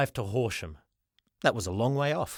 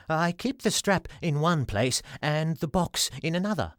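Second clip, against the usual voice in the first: lightly voiced, higher little man; a hint of a shy salesman; timid little man; 5 semitones higher than usual. Flinty's voice.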